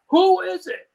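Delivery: very high, drawn-out mock scream; retold yell. Armed dealer by the door yells at the knocker, high-pitched yell. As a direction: holler it sky-high, stretching the words. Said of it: "And he's yelling".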